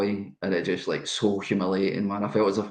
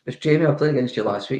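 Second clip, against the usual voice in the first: stunned reply; 5 semitones higher than usual. Retold or imitated. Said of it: "I was stunned. I couldn't speak. I went".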